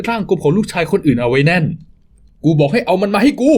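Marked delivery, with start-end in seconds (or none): 2.0-3.5 higher, slow, pressing demand; angrier, slow demand. Acted. Thug repeating his demand for the child, slower and higher. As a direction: insist harder, word by word.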